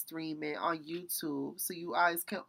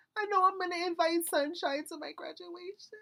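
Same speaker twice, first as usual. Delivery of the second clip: crying through the words, very high-pitched; 12 semitones higher than usual. Talking about inviting a friend to a graduation, crying while talking. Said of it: "Why am I crying about this?".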